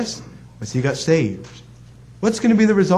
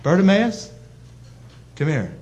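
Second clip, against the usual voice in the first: gentle call. Shown as a demonstration. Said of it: "It's just to speak".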